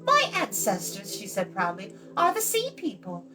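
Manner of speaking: put-on high, bright girlish voice, proud of her ancestry; young girl Eilonwy. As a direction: play the chattering young princess.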